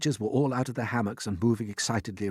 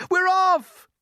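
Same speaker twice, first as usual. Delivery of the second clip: high, loud cheer; the creatures crying out as they set off; cried; 8 dB louder than usual. Acted. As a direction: cheer along with the others. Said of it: "the others cried".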